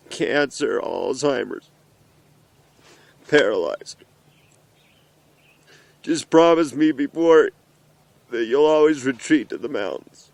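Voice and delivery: choked up, voice breaking; fighting back tears while speaking; blubbering. Real, not acted. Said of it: "I'm so emotional".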